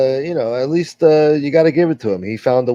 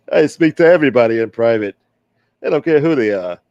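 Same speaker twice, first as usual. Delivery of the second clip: put-on wise guy accent. Old gangster defending his name to the stream, lightly voiced. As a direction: play the smooth-talking tough guy, lightly. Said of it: "I used to do this accent a lot better".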